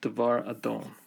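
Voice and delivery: "Devar Adon" as one unit, accent on "-don". Shown as a demonstration. Teacher joins word with Lord, single accent. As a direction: run "Devar Adon" together, reducing the first vowel. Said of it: "it only has one accent".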